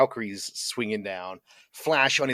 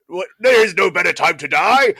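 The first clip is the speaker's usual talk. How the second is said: hammed-up booming battle cry, higher and louder; Brian Blessed screaming; 8 semitones higher, 9 dB louder than usual. Fan re-enacting a favourite film attack scene, imitated scream. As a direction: bellow it like a theatrical war leader, stretching the last word. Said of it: "Brian Blessed screaming".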